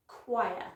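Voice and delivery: CHOIR drawn out as "kwy-uh"; model pronunciation. Shown as a demonstration. Teacher models an oddly spelt word, careful kwy-uh. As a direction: say "choir" slowly, starting with KW. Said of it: "So it is choir".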